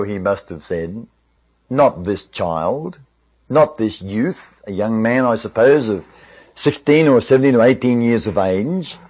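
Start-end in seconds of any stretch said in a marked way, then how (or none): 1.7-4.6 slow, lowered, let-down voice; dismayed disappointment. Retold or imitated. Saul on seeing the boy champion, mildly dismayed. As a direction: imitate a mildly crushed hope, drawing it out. Saul's imagined disappointment at David.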